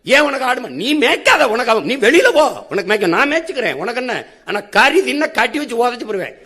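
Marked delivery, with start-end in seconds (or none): 0.0-4.2 high-pitched acted dismissal; mock quarrelsome ordering. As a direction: order them out as in a staged quarrel. (சண்டை போடுவது போல உயர்ந்த குரலில் விரட்டுதல்)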